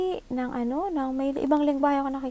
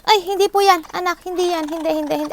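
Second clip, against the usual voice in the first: loud, higher scolding no; 4 semitones higher, 5 dB louder, faster than usual. Real, not acted. Scolding her child off camera.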